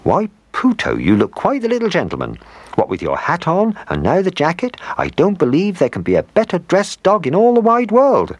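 high, fond praise of the dog; loving old woman. A narrator's reading. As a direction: dote on him like a proud granny. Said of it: "looked at Puto very lovingly and said".

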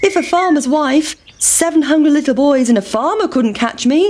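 high, taunting pancake; high cocky pancake taunt. Acted. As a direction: boast as you roll away. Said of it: "said the big pancake".

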